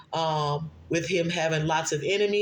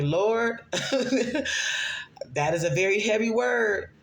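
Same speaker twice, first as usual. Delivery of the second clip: high, slow, laughing plea; laughing disbelief; 4 semitones higher, much slower than usual. Retold or imitated. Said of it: "And I'm like".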